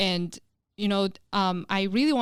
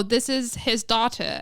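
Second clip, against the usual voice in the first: imitated British accent; 3 semitones higher, slower than usual. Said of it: "What is this pronunciation?".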